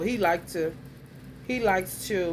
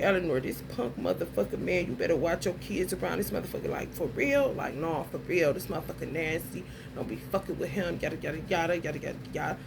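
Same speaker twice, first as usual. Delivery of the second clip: low, hurried retold warning, getting softer; quick warning; 4 semitones lower, 4 dB quieter, faster than usual. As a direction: rattle off a warning under your voice. Acts out warning a woman.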